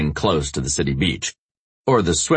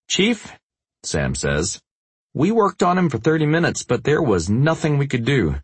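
EMT voice; 9 semitones higher than usual. Acted. Narrator voices Sam, raised pitch.

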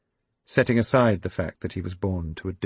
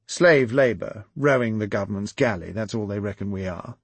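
sniffy; 3 dB louder than usual. Acted. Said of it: "Quillington sniffed".

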